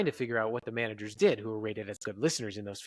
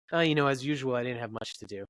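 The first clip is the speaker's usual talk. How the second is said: offhand reply. Shown as a demonstration. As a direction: shrug it off as nothing special. Same words, different meaning, acted.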